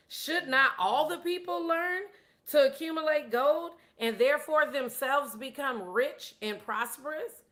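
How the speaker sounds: acted king pressing his chancellor; demanding. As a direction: put the question as a mild demand. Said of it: "demands, if you will, another question".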